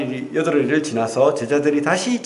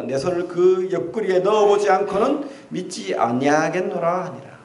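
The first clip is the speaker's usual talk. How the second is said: scripture reading; 4 semitones higher than usual. Acted. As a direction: read the verse with weight. Reads scripture passage aloud. (엄숙한 성경 낭독)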